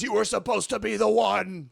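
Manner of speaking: a hint of a heartbroken mentor; Obi-Wan quote. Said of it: "He says".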